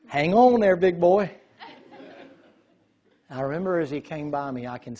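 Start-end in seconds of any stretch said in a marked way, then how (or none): 0.1-1.3 loud, high call to the horse; gleeful taunt. Retold or imitated. Boy calling out to the horse as it bolts, gleeful. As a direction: yell it out with glee. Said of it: "So I'm like".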